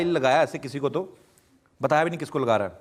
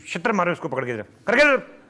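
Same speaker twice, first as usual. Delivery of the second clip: mock police shout; 2 semitones higher than usual. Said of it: "गर्म मिजाज mood में था".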